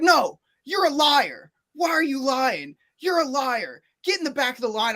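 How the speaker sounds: imitated clerk snapping back; accusing. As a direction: call him a liar and send him back. Clerk accusing him of lying.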